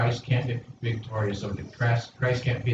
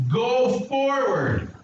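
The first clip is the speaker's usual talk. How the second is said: "go forward" drawn out very slowly and high; stress on go forward; 12 semitones higher, much slower than usual. Shown as a demonstration. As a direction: stretch "go forward" slowly for the crowd to echo. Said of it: "say it with me".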